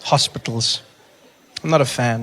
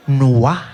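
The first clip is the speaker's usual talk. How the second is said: louder "Noah" with rising end; questioning echo; 6 dB louder than usual. Retold or imitated. Check-in woman doubting surname, loud rising "Noah". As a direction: query "Noah", lifting the last syllable. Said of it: "She's not friendly at all".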